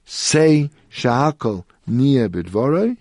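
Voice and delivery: slow, drawn-out solemn pronouncement; retold heavenly voice. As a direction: hand down the blessing slowly from on high. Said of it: "I heard a heavenly voice".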